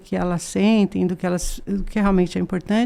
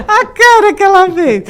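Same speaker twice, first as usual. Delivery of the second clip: laughing out the words, higher and louder; 11 semitones higher, 7 dB louder than usual. Real, not acted. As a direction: crack up while describing the face. Laughing at child's face. (rindo alto)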